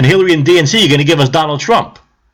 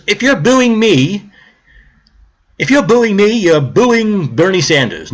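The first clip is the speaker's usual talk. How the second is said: slow, higher mocking voice for the senator; 5 semitones higher, slower than usual. Barbara Boxer scolding the booing crowd, mocked. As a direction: stretch it out like a pompous politician. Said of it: "And she says".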